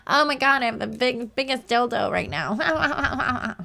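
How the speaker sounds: a high, slow, hammed-up breathy gasp of a girl.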